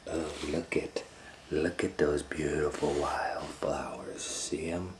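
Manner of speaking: slow whispered luring wolf; sly wolf. Acted. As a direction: coax her off the path softly. Wolf lures girl to flowers.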